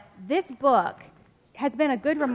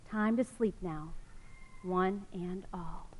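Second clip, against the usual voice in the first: softer, slow whisper; whispered goodnight; 3 semitones lower, 9 dB quieter than usual. Acted. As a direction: whisper them to sleep. Closing lullaby line.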